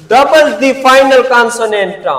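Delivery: slow, stressed teacher dictation. Shown as a demonstration. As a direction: double the final consonant drawn out very slowly. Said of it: "one syllable verbs".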